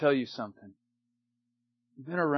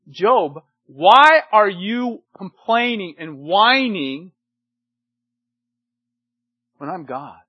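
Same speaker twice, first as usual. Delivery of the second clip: booming rebuke; 10 dB louder, slower than usual. Retold or imitated. God rebukes whining Job.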